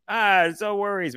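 high-pitched, easygoing mock reply; imagined brush-off. Stranger expected to shrug off the goal, imitated breezy reassurance.

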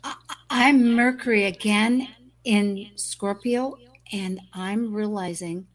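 heavy room echo on the mic. Real, not acted. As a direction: voice echoing as in a big hall. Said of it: "sorry, I'm echoing".

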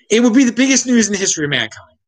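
fast, laughing excitedly. Real, not acted. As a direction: laugh through it. Excited about Venus life.

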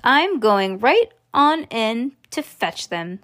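slow, emphatic announcement; determined cry. Acted. Mister Wonka announces his plan to fetch them, emphatic cry. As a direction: declare the plan slowly, with mild gusto. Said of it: "cried Mister Wonka".

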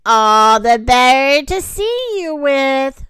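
loud, slow wolf reply; big bad wolf. A narrator's reading. Wolf posing as grandma answering the girl, loud and slow. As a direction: stretch it out loudly, relishing it. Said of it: "replied the wolf".

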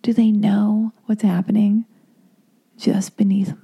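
breathy whispered inner thoughts; hushed, dreamy secret musing; sultry whisper. Retold or imitated. To herself in a shared Lyft, whispering. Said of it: "and I was like".

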